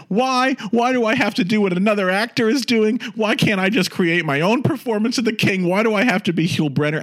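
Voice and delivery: high-pitched indignant outburst; exploding in exasperation. Retold or imitated. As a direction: blow up in a high, protesting wail. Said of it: "he finally explodes".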